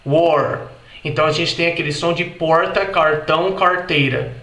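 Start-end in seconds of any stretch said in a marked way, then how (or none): 0.0-0.7 "war" with a curled R; American war. Shown as a demonstration. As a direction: sound the R in "war". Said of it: "no inglês americano". ("war" com R americano)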